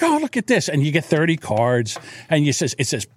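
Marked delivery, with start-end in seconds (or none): 0.0-0.7 higher, pleased oh look; proud of myself. Retold or imitated. Admiring his bingo cards, higher and pleased. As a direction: show off your handiwork. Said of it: "I'm like".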